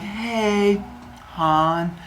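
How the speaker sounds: drawn-out, tentative sweet-talk; wife buttering up her husband; coaxing. Acted.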